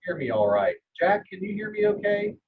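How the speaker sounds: muffled barrel sound, far away; inside a barrel. Real, not acted. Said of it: "you sound like you're in a barrel".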